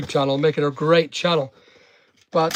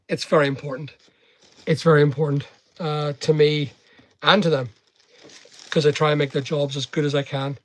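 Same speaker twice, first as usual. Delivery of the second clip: ordinary talk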